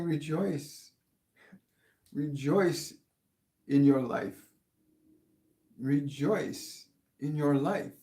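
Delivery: slow, drawn-out proclamation; measured blessing with long pauses; channeled message. Acted. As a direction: proclaim it gently, lingering on each phrase. Relays Master Jesus's message.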